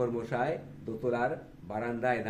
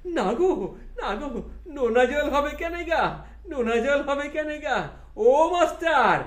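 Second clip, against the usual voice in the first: higher, laughing playful protest; laughing retort; 9 dB louder, slower than usual. Acted. Thakur laughing back at Vidyasagar, higher and amused. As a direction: laugh it off teasingly.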